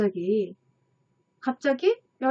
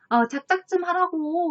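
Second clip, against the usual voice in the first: higher, sarcastic retort, half-acted; imitating someone fed up and scornful; a touch of hammed-up contempt; mock irritated snap; 6 semitones higher than usual. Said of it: "비꼬듯이 화난 투로".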